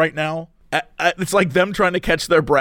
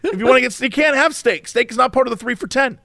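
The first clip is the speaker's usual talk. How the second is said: imitating waitress; 5 semitones higher than usual. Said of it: "her just being like".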